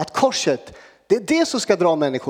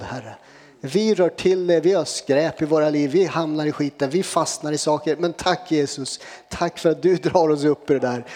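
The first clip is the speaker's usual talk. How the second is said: steady, devoted prayer to Jesus; spoken prayer. Real, not acted. Preacher leading the youth in closing prayer, devout and steady. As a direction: pray it earnestly, line by line.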